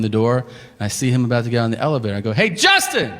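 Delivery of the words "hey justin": higher called-out hey Justin across the hall; calling out. Retold or imitated. Comedian calling after the departing waiter down the hotel hall. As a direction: stop him before the elevator.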